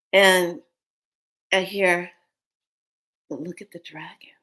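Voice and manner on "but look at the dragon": soft whispered quote; retold hushed voice. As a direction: whisper it as a voice overheard. Retells what she heard in car.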